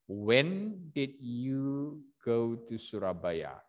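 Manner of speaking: slow wh-question, When did you go to Surabaya, dropping at the end; falling question tune. Shown as a demonstration. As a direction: say it slowly and let the end fall. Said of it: "Falling, yeah, falling intonation".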